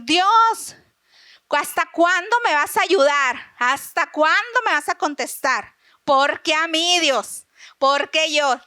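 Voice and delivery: lightly acted lament to God; Habacuc complaining. Prophet pleading with God for help, complaining. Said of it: "Habacuc empieza a quejarse".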